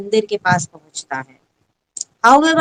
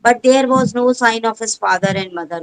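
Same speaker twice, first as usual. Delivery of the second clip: very slow, every word set apart; teacher reads the story aloud to pupils, very slow; slow textbook reading; much slower than usual. Shown as a demonstration. Teacher reads English text.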